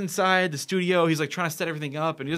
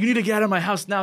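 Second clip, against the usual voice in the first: quick, higher mock-angry order; retold yelling; 5 semitones higher, 3 dB louder, faster than usual. Retelling the friend throwing guests out, quick imitated anger. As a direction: imitate a mad homeowner ordering people out. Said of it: "Starts yelling".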